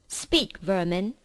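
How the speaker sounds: witch queen commanding. Acted. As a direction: order the creatures to speak. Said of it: "she said again".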